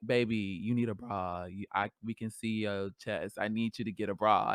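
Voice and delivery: scolding friend. Retold or imitated. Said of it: "they'd be like".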